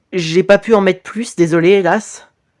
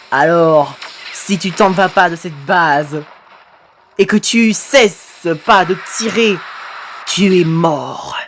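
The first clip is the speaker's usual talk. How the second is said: a hint of phantom menace, last words drawn out; threatening ghost; 2 semitones lower, slower than usual. Ghost warning victim to leave the base, mildly menacing.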